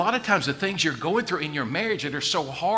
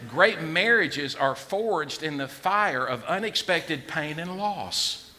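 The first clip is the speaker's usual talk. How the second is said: slow emphatic; slower than usual. Shown as a demonstration. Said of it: "You need to tattoo that somewhere".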